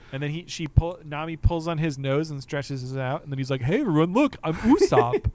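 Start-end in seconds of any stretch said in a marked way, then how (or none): 3.6-5.3 goofy show-off. Retold or imitated. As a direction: call out a silly gag to everyone. Imitating captain's goofy Usopp gag.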